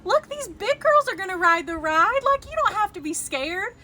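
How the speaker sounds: a dad in line loudly coaxing his scared daughter; imitating the dad. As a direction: play the dad reassuring his crying kid. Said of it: "he turns around and goes".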